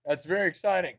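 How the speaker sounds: hushed, soft aftermath of the hype; understated excitement. Acted. Streamer calming down after cheering the votes, hushed. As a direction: drop suddenly to a soft, measured voice.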